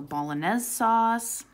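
put-on bolognese said in a light Italian accent; a hint of an Italian accent on bolognese. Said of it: "Excuse my Italian accent".

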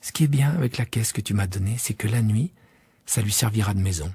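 put-on child pondering the box; meditative little prince. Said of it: "après un silence méditatif".

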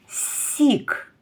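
це слово сік said slowly; slow confirming answer for children. Shown as a demonstration. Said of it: "Молодці".

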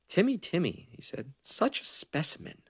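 high, loud teasing taunt; mocking. A narrator's reading. Azar taunting a cowering Timmy, mocking. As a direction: draw it out in mock wonder.

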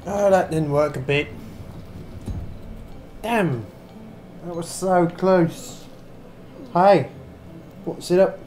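badly faked British accent, chatty gamer commentary; amateur attempt at sounding vaguely British; mock British accent. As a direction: put on a dodgy, hard-to-place British accent. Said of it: "I know the accent's terrible".

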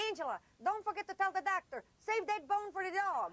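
a hint of dad's deadpan joke from the gurney; joking father. Father jokes to Angela while wheeled to surgery, lightly voiced. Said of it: "My father leans out and goes".

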